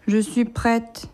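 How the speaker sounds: slow, sulky mumble. Acted. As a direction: say it like a pouting grown-up. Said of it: "Elle dit d'un air boudeur".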